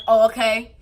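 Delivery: flat, offhand "Oh, okay"; lightly mocked shrug-off; dismissive reply. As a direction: brush it off coolly. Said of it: "And they're like".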